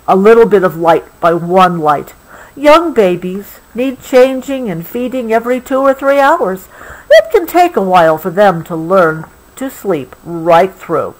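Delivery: gentle, unhurried storybook read; reading to a child. Acted. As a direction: soothe a child toward sleep with the story. Reading the book.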